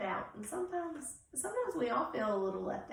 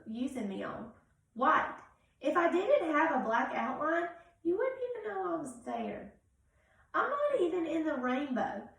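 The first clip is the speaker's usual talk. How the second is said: lonely crayon; 3 semitones higher, 3 dB louder than usual. Acted. Reads White Crayon's letter.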